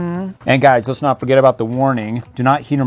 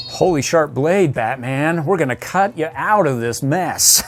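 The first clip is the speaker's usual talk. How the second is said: Robin voice; 2 semitones higher, slower than usual. Acted. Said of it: "Robin's freaking out about everything".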